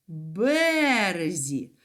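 березі slowly, with бе drawn out; stress on first syllable. Shown as a demonstration. Teacher answering where children stand, first-syllable stress on березі. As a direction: stretch бе in березі, drop the rest. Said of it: "наголос падає на перший склад".

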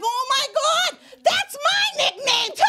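delighted squeal. Retold or imitated. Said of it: "I was like".

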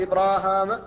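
إبراهام with both long a's, ibraahaam; both alifs kept. Shown as a demonstration. Teacher demonstrating the variant that keeps both alifs, إبراهام long in both places. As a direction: stretch both vowels in إبراهام. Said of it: "فإما أن يثبت الألفان فيقال".

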